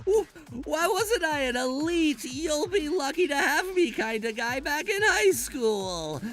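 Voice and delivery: high, sobbing wail of regret; high crying voice, mourning his own spite; crying lament. Acted. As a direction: wail it through tears.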